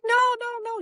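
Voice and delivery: high-pitched retold protest; emphatic reassurance. Interviewers contradicting her doubts, emphatic reassurance. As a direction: insist in a high, rushing voice.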